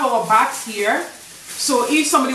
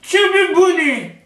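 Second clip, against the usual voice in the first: mouth full; 7 semitones higher than usual. Real, not acted. Cheeks full, shouting phrase.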